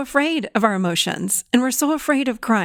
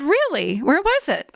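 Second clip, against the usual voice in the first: high, intrigued question; mock-amazed, pitch jumping up; surprised, retold; 6 semitones higher than usual. Therapist asks client about her found power, surprised.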